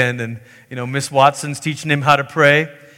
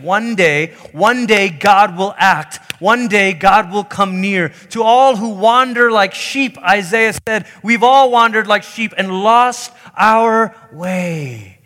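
raised, emphatic preaching build; prophetic proclamation; 4 semitones higher, 4 dB louder than usual. Acted. Prophets pointing God's people forward, rousing proclamation. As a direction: proclaim it, higher and stronger as it goes.

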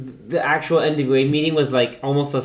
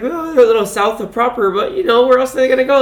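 higher, louder mock excuse of a pub landlord; imitating the landlord; 9 semitones higher, 5 dB louder than usual. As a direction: play the landlord shrugging it off.

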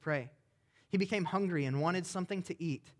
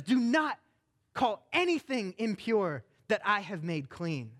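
angry God; 3 semitones higher, 3 dB louder, slower than usual. Acted. God defending believers against accusers, angry and firm. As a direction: defend your people with a firm rebuke. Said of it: "We have a God that gets angry on our behalf".

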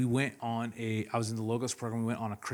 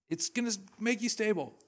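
1 teacher guiding; 8 semitones higher than usual. Retold or imitated. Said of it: "he's like".

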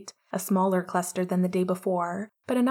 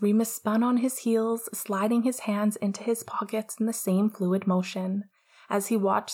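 whispered reading. A narrator's reading. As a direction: read it like a late-night whisper.

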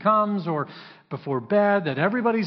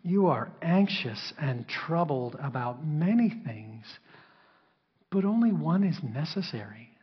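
tender. Acted. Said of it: "some tenderness in the way".

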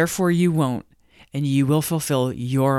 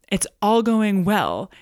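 usual speaking voice

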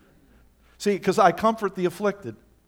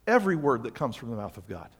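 lower, softer, deliberate rereading; quiet emphasis; 9 semitones lower, 6 dB quieter, faster than usual. Shown as a demonstration. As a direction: bring it down and let it sink in. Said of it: "what you notice here".

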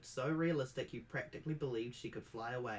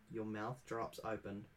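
ordinary delivery, nothing marked

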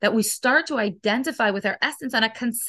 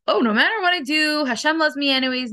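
mock excuse; 4 semitones higher than usual. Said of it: "We're not saying this like an excuse".

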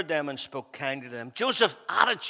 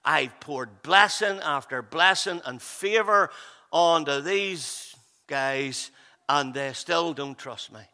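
slow, wounded inner voice, drawn out; hurt inner thought; 3 semitones lower, slower than usual. Retold or imitated. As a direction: let the disappointment sink in slowly. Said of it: "I'd be thinking".

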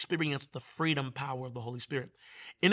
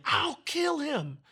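high, strained, drawn-out possessed voice; demonic yell; 12 semitones higher, much slower than usual. Retold or imitated. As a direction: imitate a possessed woman threatening, slowly. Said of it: "She starts yelling".

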